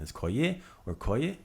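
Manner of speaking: koye first with stress on ko, then on ye; shifting the accent. Shown as a demonstration. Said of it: "where you throw that syllable accent".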